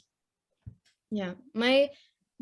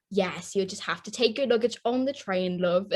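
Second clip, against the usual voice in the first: put-on British accent; 3 semitones lower than usual. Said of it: "with that accent".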